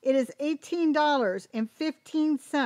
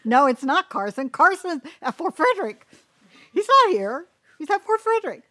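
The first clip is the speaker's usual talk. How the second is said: excited protest; 6 semitones higher, 8 dB louder than usual. Real, not acted. Laughing protest.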